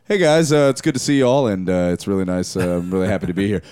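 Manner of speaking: Matt talking. Retold or imitated. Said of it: "Matt's like".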